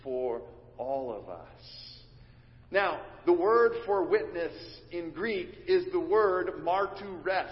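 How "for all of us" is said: gentle y'all. Shown as a demonstration. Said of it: "He's saying".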